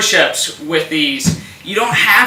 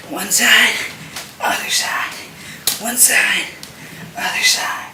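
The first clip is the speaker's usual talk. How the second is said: breathy, effortful exercise cues; strained with effort; 4 semitones higher, 3 dB quieter than usual. Real, not acted. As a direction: call each side through the exertion of twisting. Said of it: "hear it in my voice".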